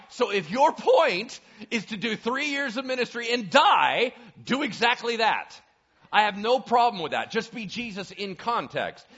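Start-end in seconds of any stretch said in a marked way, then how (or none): none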